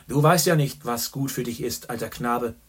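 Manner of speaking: a boisterous journalist ordering whisky for his friend; hearty old pal. A narrator's reading. Boastful Gallagher greets Chandler, loud and jovial.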